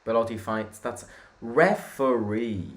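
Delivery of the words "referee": drawn-out appeal. Real, not acted. Appealing for a foul.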